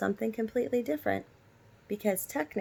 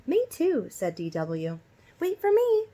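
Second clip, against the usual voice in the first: put-on high, loud eager kid shout; little girl voice; 7 semitones higher, 5 dB louder than usual. A narrator's reading. D W calling after Arthur to the pool, high and loud. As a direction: squeal it like a little sister left behind.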